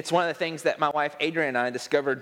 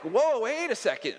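imitating wife's startled objection, pitched higher; taken aback; 7 semitones higher than usual. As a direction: hold up, mock-startled and higher. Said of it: "she'd be like".

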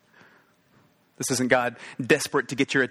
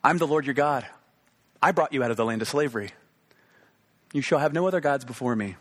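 spoken straight to you, plain and direct; personal address; 2 semitones higher, faster than usual. Shown as a demonstration. Preacher voicing God to the listener today, direct and personal. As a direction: say it as if God speaks to you now. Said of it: "Let this speak to you today".

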